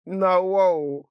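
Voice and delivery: high-pitched incredulous wow; amused disbelief. Acted. Son hears the name's meaning, high amused disbelief. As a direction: marvel between bouts of laughter. Amazed between bouts of laughter.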